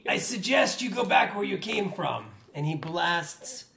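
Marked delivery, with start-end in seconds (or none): 0.1-2.3 robed man's warning. Acted. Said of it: "man in the robes".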